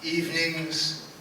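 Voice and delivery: poem recital, measured pauses; cowboy poetry. Acted.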